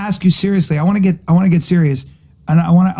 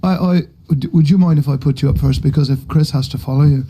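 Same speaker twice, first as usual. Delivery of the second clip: put-on Irish accent; 3 semitones lower than usual. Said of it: "If that was Mark's accent".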